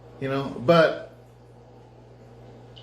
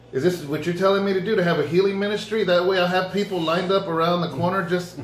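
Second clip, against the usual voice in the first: hopeful excitement; 5 semitones higher than usual. Retold or imitated. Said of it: "And I'm just like".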